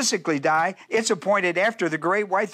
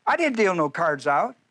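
incredulous; 6 semitones higher than usual. Retold or imitated. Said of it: "I go like".

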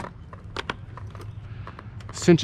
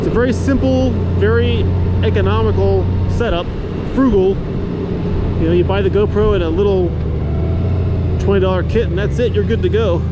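helmet-cam mic while riding in wind; inside a helmet. Real, not acted. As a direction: talk into a GoPro mic inside an open-face helmet. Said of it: "looks and sounds in action".

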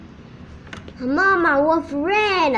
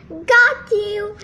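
giggled; 5 semitones higher, 5 dB louder than usual. A narrator's reading. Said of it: "he giggled".

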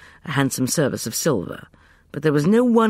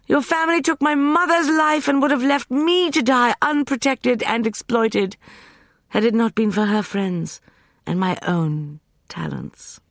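impatient scorn; 13 semitones higher, 4 dB louder than usual. A narrator's reading. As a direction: spit contempt then hiss the end. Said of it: "she said, impatiently".

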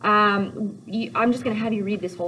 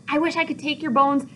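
exasperated Juliet; 6 semitones higher than usual. Acted. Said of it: "She's like".

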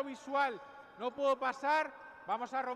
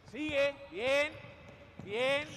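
barking gym coach; 3 semitones higher, 5 dB louder, much slower than usual. Real, not acted. Coach encouraging during drill.

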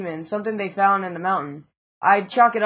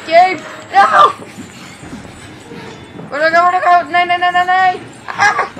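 higher, louder frantic yelling; panicked yelling; 10 semitones higher, 6 dB louder than usual. Real, not acted. Gamer fleeing the chaser, panicked yelling. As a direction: yell in panic while fleeing.

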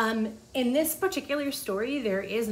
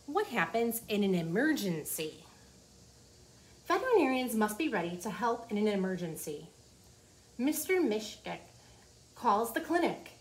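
put-on reading to children. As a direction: clear storybook read-aloud. Reading the book aloud.

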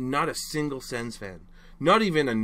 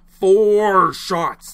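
outraged repeat; 7 semitones higher, 12 dB louder than usual. Real, not acted. Fan repeating shot count, outraged.

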